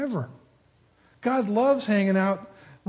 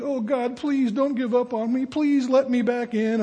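higher pleading voice, slowing at the end; mock begging; 5 semitones higher than usual. Sinner begging God for another chance, mock pleading. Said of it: "beg and plead".

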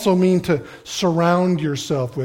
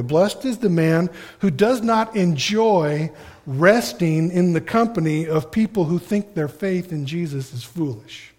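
slow paraphrase. Shown as a demonstration. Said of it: "Let me paraphrase that for you".

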